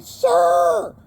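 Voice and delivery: high, sharp mock call of sir; mocking the Walmart worker's yell; imitated yell. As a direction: bark it like a store clerk stopping you. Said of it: "I've had 'em yell at me".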